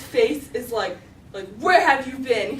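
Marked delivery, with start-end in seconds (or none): 1.6-2.6 loud, slow demand; mad dad. Retold or imitated. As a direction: imitate a cross parent's questioning. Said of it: "He's just mad".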